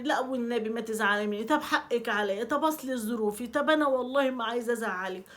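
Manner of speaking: over-apologizing. Retold or imitated. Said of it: "مش تقعدي بقى تبرري".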